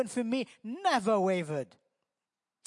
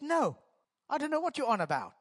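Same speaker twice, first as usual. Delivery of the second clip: higher, fast flustered denial; hasty denial; 5 semitones higher, faster than usual. Acted. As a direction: rattle it off like a cornered man. Peter denies a second time.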